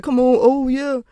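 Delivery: lightly voiced smooth-talking guy; a hint of a guy sweet-talking; mocking a guy. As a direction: play the fake-nice ex-classmate.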